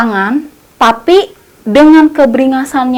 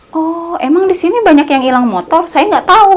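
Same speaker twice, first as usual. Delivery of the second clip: surprised question; 6 semitones higher than usual. Retold or imitated. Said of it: "katanya kayak gitu".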